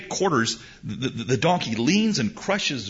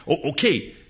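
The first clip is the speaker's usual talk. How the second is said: reluctant parent okay; 3 semitones higher than usual. Retold or imitated. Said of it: "we say to our kids sometimes".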